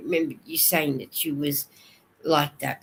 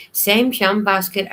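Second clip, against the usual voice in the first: Sam Jam Basket called out louder, high on Sam; louder name; 4 semitones higher, 5 dB louder than usual. Real, not acted. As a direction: announce Sam Jam Basket brightly to the chat. Reads out a chat name.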